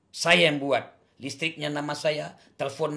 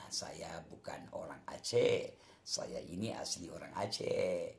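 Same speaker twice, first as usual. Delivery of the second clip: whisper; 12 semitones lower, 11 dB quieter than usual. Real, not acted. Insisting he is Aceh-born.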